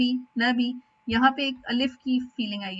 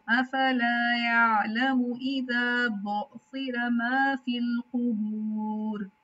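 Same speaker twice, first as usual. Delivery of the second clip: slow Quranic recitation; slower than usual. Shown as a demonstration. Teacher models the verse for her student, slow recitation. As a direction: recite अफला यालमू इज़ा बुअसिरा slowly, every letter drawn out. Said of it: "तो इसको आपने साथ ही रखना है".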